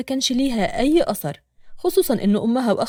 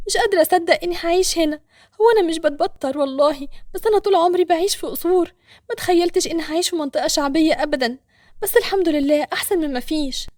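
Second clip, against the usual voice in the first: Nour's inner thoughts; 4 semitones higher than usual. Acted. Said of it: "ده كان تفكير نور".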